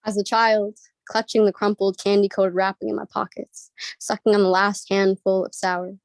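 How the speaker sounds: measured, even spoken word reading; spoken word poem. Acted. Slam poet reading her contrapuntal to the crowd, measured. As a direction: let each image land, steady and deliberate.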